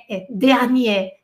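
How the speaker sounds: dernier said slowly, the first e open as in English "air"; teacher drawing out dernier so students hear the e; slow demo of French. Shown as a demonstration. Professora ensina aos alunos a pronúncia francesa, devagar. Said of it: "ele tem E".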